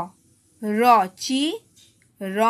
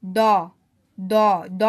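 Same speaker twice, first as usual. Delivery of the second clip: slow sounding out; 4 semitones lower, 3 dB louder, much slower than usual. Shown as a demonstration. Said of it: "কি হচ্ছে?".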